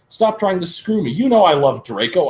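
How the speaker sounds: high, loud angry shout; hammed-up shout at Vampire. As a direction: shout him off, furious. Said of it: "I shouted".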